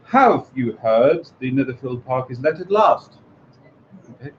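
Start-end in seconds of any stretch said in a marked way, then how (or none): 0.1-3.2 slow, eager question with a lift; eager Mrs Bennet. Shown as a demonstration. Mrs Bennet asking her husband the news, eagerly. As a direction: ask it as the eager wife. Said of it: "said his ladies to him one day".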